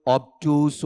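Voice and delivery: ऑब्टयूज said slowly as "obtyooz"; one variant pronunciation. Shown as a demonstration. Teacher showing students a variant pronunciation, drawn out. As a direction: draw out ऑब्टयूज as people mispronounce it. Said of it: "ऐसे अलग-अलग उच्चारण करते हुए".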